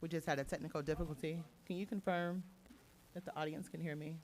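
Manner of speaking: breaking-up microphone; crackly usb mic. Real, not acted. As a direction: voice crackling through a bad mic. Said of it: "your mic is, keeps crackling out".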